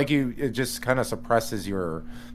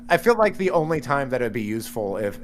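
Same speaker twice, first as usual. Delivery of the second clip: ordinary talk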